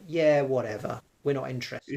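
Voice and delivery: lightly acted brush-off; mock dismissive. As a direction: imitate an unimpressed interviewer losing interest. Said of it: "they're gonna be like".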